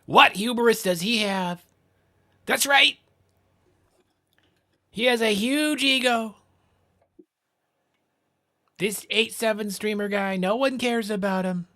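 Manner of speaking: mock Trump talking up his own ego; Trump impression. Streamer to chat, slow high Trump impression. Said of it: "No more Trump impersonations".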